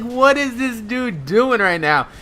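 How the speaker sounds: high, drawn-out incredulous question; acted disbelief. Storyteller reacting to costumed classmate, high-pitched disbelief. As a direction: ask it high and slow, baffled.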